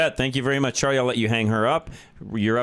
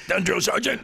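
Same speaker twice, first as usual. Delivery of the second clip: mock recruit answer to the drill sergeant, laughing; military reply; 7 semitones higher than usual. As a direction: bark it back like a new recruit, half laughing. Host echoes movie recruit line.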